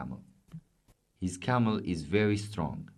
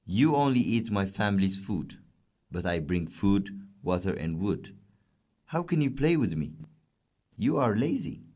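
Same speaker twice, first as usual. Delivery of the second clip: mild angry scolding, rising on the question; lightly voiced camel, sharply accusing; a touch of annoyed reproach; 3 semitones higher than usual. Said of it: "said the camel angrily".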